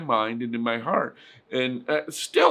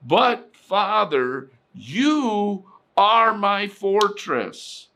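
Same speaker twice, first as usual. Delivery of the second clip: slow trusting prayer; 3 semitones higher than usual. Retold or imitated. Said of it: "He always says".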